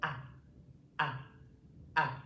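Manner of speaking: ah ah ah, each from the back of the throat, mouth wide; open ah vowel. Shown as a demonstration. Teacher models the vowel for the class, open ah. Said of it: "it's coming from the back of my throat".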